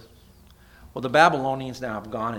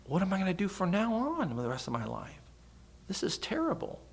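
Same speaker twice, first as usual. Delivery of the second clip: hammed-up despair; 8 semitones higher, 3 dB quieter than usual.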